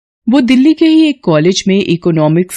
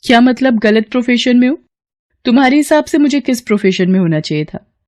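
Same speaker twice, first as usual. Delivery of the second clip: higher voice, taken aback then brisk; surprised teacher Kamya; 5 semitones higher, faster than usual. Acted. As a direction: catch a student where he shouldn't be. Kamya questions Harish. (ऊँची आवाज़ में हैरान teacher)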